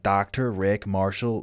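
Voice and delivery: slow, lightly imitated movie quote; a hint of impression, unhurried; film character's self-introduction. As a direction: draw the name out slowly, quoting a film. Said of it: "him just being like".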